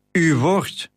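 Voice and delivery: woord lifted and stressed as a question. A narrator's reading. Captain repeats the phrase back, stressing woord. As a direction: lean hard on woord. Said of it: "benadrukte hij".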